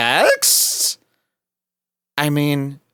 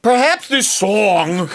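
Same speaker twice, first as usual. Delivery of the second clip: slow, high mock Jewish accent; 7 semitones higher, slower than usual. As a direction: drag out "Perhaps" in a mocking Jewish accent. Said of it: "She tried to do a Jewish accent".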